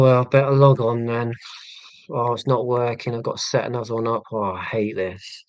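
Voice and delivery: whiny, put-upon sighing; hammed-up reluctant sigh; mock bored streamer. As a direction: act like a bored streamer who hates this. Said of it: "I'm gonna sound bored".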